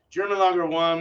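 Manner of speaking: playful fake German accent; mock German accent. Shown as a demonstration. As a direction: belt German Lager One in a hammy German accent. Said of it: "That was a terrible German accent".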